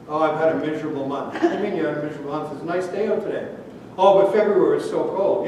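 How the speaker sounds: mopey complaining voice, a touch of a whine; gloomy Eeyore friend. Acted. Preacher acting a gloomy friend moaning about February. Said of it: "He was Eeyore".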